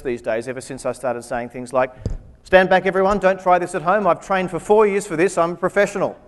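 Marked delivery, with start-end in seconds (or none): 2.4-6.1 mock pompous warning. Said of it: "Mockery gets out".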